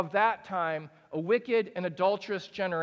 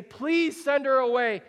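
higher, louder begging; fed-up plea; 7 semitones higher, 8 dB louder than usual. Acted. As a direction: disciples pushing Jesus to act. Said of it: "disciples go to Jesus and say".

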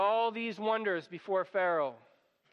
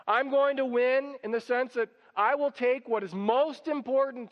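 louder, driving sermon voice; preaching at full force; 4 dB louder than usual. Acted. Preacher hammering home God's power to the congregation, fervent. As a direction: preach it out with rising conviction.

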